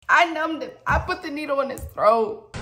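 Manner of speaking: loud, high, hammed-up admission; mock confession. Storyteller confessing as if facing jail, mock distress. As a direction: cry out the guilt theatrically.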